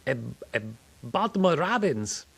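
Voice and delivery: put-on high, halting thick Latino accent; lightly done Latino accent. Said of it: "very thick accent".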